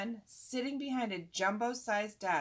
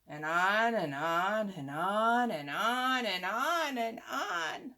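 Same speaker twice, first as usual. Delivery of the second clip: slow, dragging mock drone; bored droning; 3 dB louder, slower than usual. Boy mocking an endless story, slow bored drone. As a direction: drag every on out slowly.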